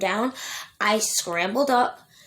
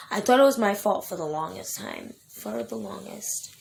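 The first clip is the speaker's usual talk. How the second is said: holding back tears. Real, not acted. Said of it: "Sorry, I'm really emotional".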